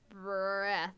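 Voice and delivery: BREATHS with a short "eh" vowel; careful pronunciation. Shown as a demonstration. Reader checking a word with a listener, careful BREATHS with short vowel. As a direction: say BREATHS to rhyme with "deaths", drawn out. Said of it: "I think it's supposed to be breaths".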